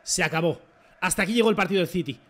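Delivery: firm, forceful verdict; emphatic declaration. Real, not acted. Player declaring the City match finished, emphatic. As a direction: call it over with punch.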